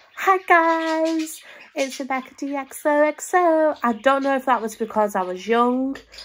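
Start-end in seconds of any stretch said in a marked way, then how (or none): 0.2-3.8 weird affected put-on voice, high and very slow. Recalling the voice she used at the start of old videos: weird put-on intro voice. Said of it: "I used to put on like this weird like voice".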